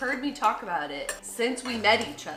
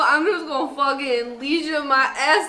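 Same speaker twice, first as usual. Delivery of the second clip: hyped sign-off; 5 semitones higher, 7 dB louder than usual. Real, not acted.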